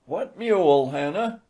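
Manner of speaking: put-on high, dazed drunken old man. A narrator's reading. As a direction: answer blankly, befuddled. Drunk elder answers blankly.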